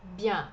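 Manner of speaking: Bien with a nasal ending, like the Portuguese ão sound; Bien as bian, nasal; nasal French vowel. Shown as a demonstration. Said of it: "Esse E N é um som um pouquinho mais nasal". (Bien com som nasal)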